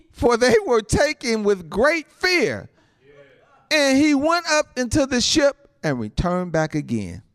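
emphatic pulpit reading, words stretched; preached scripture reading. Real, not acted. Preacher reads the healing testimony to the saints, forceful proclamation.

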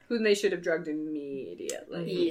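soft unvoiced aside; whispering. Real, not acted. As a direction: whisper it as a secret.

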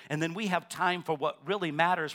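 ordinary delivery

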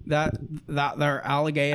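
stretched Louisiana Southern vowels; Louisiana accent. Shown as a demonstration. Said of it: "then I sound really Southern".

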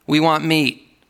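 lightly whiny complaint; whining Israelites. Retold or imitated. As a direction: whine like a spoiled crowd demanding food. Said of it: "They kept whining to God".

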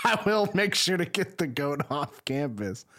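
retold assurance with laughter breaking in; barely holding back laughter; amused retold reply. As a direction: laugh through the promise. Laughs while retelling own reply.

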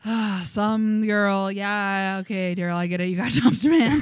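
sarcastic rant at a dumped singer, building to loud; mocking rant. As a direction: scoff at a heartbroken singer, building up.

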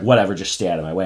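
quick, offhand brush-off; mock impatient dismissal; Regina, dismissive. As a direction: wave them away in a hurry. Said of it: "Regina's pretty dismissive of him".

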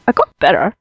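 quoting Monty Python in a mock English accent. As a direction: do a hammy English peasant accent. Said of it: "my Monty Python quote there".

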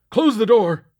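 sudden high, loud shout. A narrator's reading. Panicked captain shouting at Lakely to shut the door. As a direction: bark the order from the dark. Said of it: "he immediately shouted".

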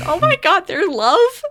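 high, swooning gush over their love; gushing squeal. Retold or imitated. To co-hosts, gushing over the couple: high swooning squeal. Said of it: "And I'm like".

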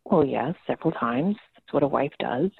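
a hint of mom's deep smoker's voice; mom impression. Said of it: "very deep smoker's voice and this very strong Boston".

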